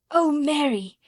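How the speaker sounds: high, loud breathless cry; cry with half a sob. A narrator's reading. Colin overwhelmed by news of the garden, high sobbing cry. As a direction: burst out near tears. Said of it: "he cried out with half a sob".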